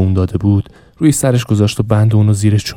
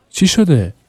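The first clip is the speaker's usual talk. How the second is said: dazed question; 8 semitones higher, slower than usual. Acted.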